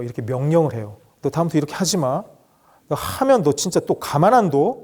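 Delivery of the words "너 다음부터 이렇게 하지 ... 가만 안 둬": mock threat. Shown as a demonstration. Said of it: "이런 식으로 협박을 하기도 해요".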